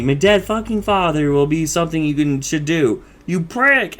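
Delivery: mildly hammed-up freak-out; Rusty. Rusty to his fake alien father, mock outraged rant. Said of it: "Rusty freaks out".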